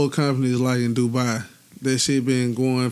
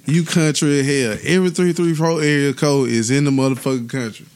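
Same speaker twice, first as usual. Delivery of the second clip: loud; 4 semitones higher, 5 dB louder than usual. Real, not acted. Loud hyped rant.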